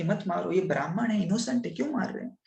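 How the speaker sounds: acted plea, climbing in pitch; mild mock cry of protest; pleading cry. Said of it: "Renuka माता चिल्ला रही थी कि".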